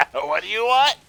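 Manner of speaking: loud, high-pitched question; loud what-is-it-now yell; exasperated call. Real, not acted. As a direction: call it out high, rising at the end. Answers someone who interrupts.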